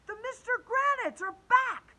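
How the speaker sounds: high, loud alarmed shout; boy warning the class, high loud shout; panicked shout. Acted. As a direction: sound the alarm. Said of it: "shouted Michael".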